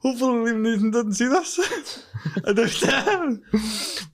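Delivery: laughing, high and slow. Real, not acted. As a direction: giggle through the words. Laughing at own dark joke.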